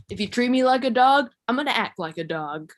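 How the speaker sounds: mock-tough comeback, starting high and loud; fantasy comeback. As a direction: deliver it as a confident imagined retort. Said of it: "But I think it would go more like".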